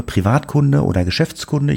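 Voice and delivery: automated phone menu voice; computer voice. Retold or imitated. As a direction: read it like a recorded phone menu. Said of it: "Dann sagte so eine Computerstimme".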